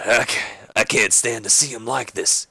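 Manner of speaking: mildly choked-up mock lament; holding back tears. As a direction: falter as if about to cry. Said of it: "he's kinda holding back tears".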